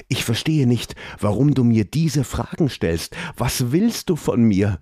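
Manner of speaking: high, anxious questioning; fearful. Acted. Frightened prince questioning the creature, anxious high voice. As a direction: press him with nervous, frightened questions. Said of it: "In Elons Stimme lag deutliche Angst".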